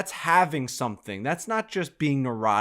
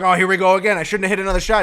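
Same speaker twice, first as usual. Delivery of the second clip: frustrated; 7 semitones higher, 9 dB louder, much faster than usual. Retold or imitated. Frustrated after duffed shot.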